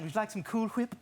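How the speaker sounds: "Cool Whip" with a breathy hw; emphasis on the H. Acted. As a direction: push air on the H of "Whip". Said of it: "why are you saying it like that".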